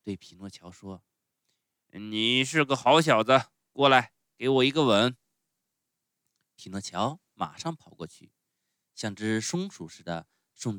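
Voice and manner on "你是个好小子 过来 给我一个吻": loud, hearty praise; affectionate showman. A narrator's reading. Showman asks Pinocchio for a kiss, fondly booming. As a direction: open your arms with the voice, big and fond. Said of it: "疼爱的".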